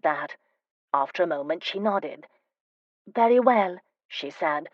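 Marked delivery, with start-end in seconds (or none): 3.1-3.8 doubtful. A narrator's reading. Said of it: "her voice was doubtful".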